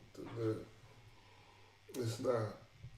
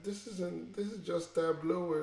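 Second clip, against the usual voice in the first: higher-pitched incredulous protest; amused disbelief; 8 semitones higher than usual. Retold or imitated. Speaker recalls laughing at a data job listing, amused disbelief. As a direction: scoff at it in a raised, amused pitch.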